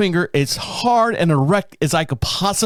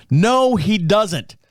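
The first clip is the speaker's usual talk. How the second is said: slow, emphatic retold comeback; defiant retort; 3 semitones higher, much slower than usual. Driver contradicts the man at the window, slow and defiant. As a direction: space out each word, refusing to budge. Acted argument with a panhandler.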